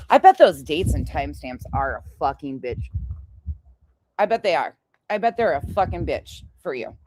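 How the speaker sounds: talking around candy; a Jolly Rancher in the mouth; mouth full. Real, not acted. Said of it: "I have a Jolly Rancher in my mouth".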